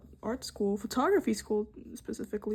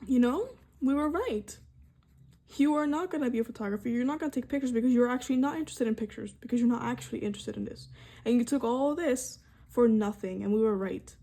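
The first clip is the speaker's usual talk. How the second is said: mocking critics; faster than usual. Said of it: "the power to tell me".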